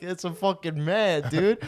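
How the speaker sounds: loud, high retold exclamation; hilarious disbelief. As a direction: crow it to your buddy, drawn out. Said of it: "I'm crying laughing".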